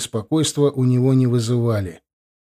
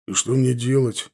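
upset. A narrator's reading. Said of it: "огорчённо спросил Тарас".

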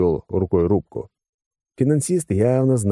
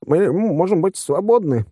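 high, slow, timid question; cautious; 12 semitones higher, slower than usual. A narrator's reading. Gang chief asking his captors for release, cautiously. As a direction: ask carefully, pitch well up. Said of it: "осторожно спросил главдятел".

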